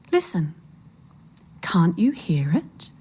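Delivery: soft whisper, drawing him in; hushed whisper. A narrator's reading. Old woman luring the man to hear, hushed whisper. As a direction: hush him and make him listen.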